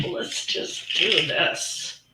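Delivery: effortful, slow strained voice; words pushed out while lifting; straining with the jar. Real, not acted. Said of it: "this jar is incredibly heavy".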